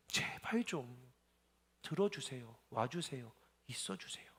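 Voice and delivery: exhausted whispered prayer; broken whisper. Retold or imitated. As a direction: let the begging die to a breath. Plea fading to a whisper.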